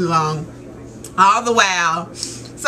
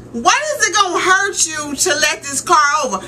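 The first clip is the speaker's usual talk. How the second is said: higher-pitched indignant questioning; exasperated plea; 4 semitones higher than usual. Retold or imitated. Daughter urging her dad to let a car over, exasperated. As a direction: plead as if fed up with the driver.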